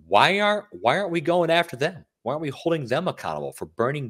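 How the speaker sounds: high, outraged rhetorical question; retelling Del Rio's outrage, pitched high; indignant quote. Retold or imitated. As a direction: demand it like an angry coach. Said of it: "Jack Del Rio had some strong words".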